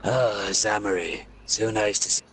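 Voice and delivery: a hint of a slick, evil villain; Ocelot voice. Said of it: "The Ocelot voice".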